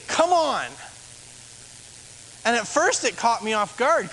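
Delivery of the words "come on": higher, cheering call from the pews; congregation's encouragement. Retold or imitated. Congregation member cheering the preacher on, encouraging call. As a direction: lightly imitate an amen-style cheer. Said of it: "they would say".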